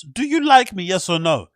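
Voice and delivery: high, loud mock schoolkid asking. Mocking grown men passing notes, in a loud childish voice. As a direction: tease it like a ten-year-old's note.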